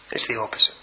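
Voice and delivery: low breathy whisper for emphasis; hushed whispered repeat of the point; whispered echo. Shown as a demonstration. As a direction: whisper it back to the congregation. Whispered repeat of key phrase.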